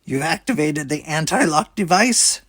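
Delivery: scornful, disbelieving alien captain; sneer. A narrator's reading. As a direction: sneer the question down at him. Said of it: "she said with a sneer".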